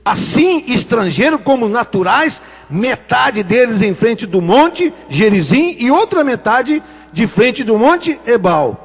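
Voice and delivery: slow, measured Bible reading; scripture reading. Acted. Preacher reads Joshua's verse to the congregation, slow and solemn. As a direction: read each phrase of the verse slowly and deliberately.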